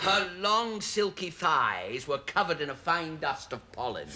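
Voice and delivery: measured, dramatic novel reading; story narration. Acted. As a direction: read it as steamy pulp romance. Resumes the racy novel.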